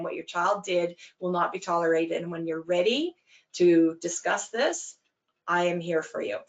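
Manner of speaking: calm, firm, even statement; short and succinct. Shown as a demonstration. Coach repeating the line to the parent, steady and calm. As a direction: repeat it steadily, without rising to it. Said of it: "and you say it again".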